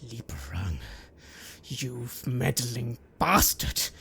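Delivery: low, slow menacing masked man; low snarl. Acted. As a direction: spit the name with contempt.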